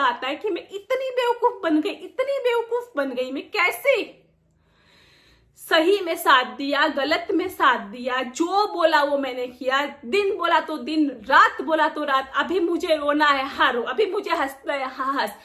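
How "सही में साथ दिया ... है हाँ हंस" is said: angry outburst. Real, not acted. Venting angrily about loyalty.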